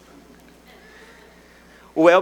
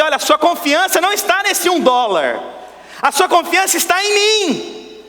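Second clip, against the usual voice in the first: voice of God; 8 semitones higher than usual. Acted. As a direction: speak as God calling them to trust. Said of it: "Deus tá pedindo pra você".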